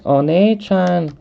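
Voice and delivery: high, slow mock Japanese accent. Shown as a demonstration. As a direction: try out a drawn-out Japanese accent. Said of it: "Can I do a Japanese accent better?".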